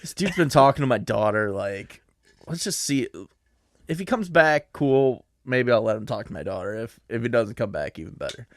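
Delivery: lightly voiced gruff dad; a hint of a dad sizing up his daughter's date; dad musing whether the guy comes back; protective father. Voicing Soviet dad about astronaut.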